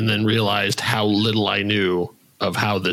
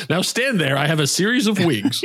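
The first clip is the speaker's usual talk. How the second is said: laughing mock thespian, higher; pompous actor giggling through it; hammy stage actor; 6 semitones higher than usual. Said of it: "The door-to-door Shakespeare".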